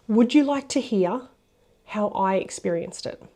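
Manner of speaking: slow, gentle, softening toward the end; tender. Shown as a demonstration. To the partner after their big feelings, slow and tender. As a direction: ease into it slowly, like offering a hand. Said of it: "go tender".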